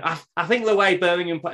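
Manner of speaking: laughing through a first go at the Scouse accent and giving up; failed Rooney accent. Shown as a demonstration. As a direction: start the accent, then crack up. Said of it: "Maybe I should try to do a Rooney accent".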